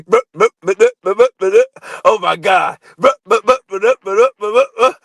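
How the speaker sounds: lightly voiced blustery rooster, repeating bruh loudly; a hint of a cartoon rooster sputtering; Foghorn Leghorn impression. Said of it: "that nigga sound like Foghorn Leghorn".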